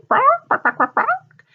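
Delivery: high, loud playful barking; silly barking. Pretend. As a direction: bark like a goofy dog to tease the kids. Joking animal noise for children.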